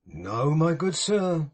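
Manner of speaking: slow, firm and resolute; firmly. Acted. Pecksniff refusing old Martin's caution, firm. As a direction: plant each word, unbending. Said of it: "said Mister Pecksniff firmly".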